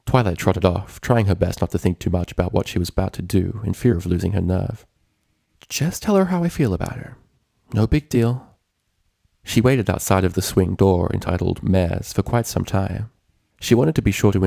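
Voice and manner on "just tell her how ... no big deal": higher, shaky self-encouragement; steady yourself before confessing; nervous pep talk. A narrator's reading. Twilight outside the door, nervous.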